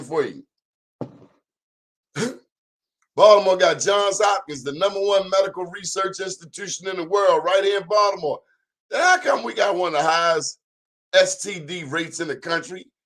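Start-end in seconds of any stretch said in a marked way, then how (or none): 3.1-12.9 heated rhetorical outburst. Real, not acted. Rhetorical outrage about Baltimore.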